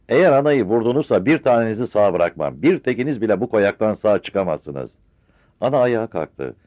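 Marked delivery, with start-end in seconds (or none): 0.1-4.9 loud furious threat; threatening shout. Acted. Son shouts threat at gendarmes, furious. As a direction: bellow the threat at them. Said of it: "Mehmet bağırdı".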